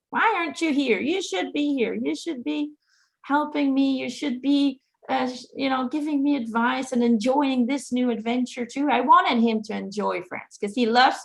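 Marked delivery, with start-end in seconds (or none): 0.1-8.9 mildly angry. Retold or imitated. Grieving daughter reproaching her absent dad, mildly angry. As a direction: complain with a touch of retold anger. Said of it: "First was getting angry".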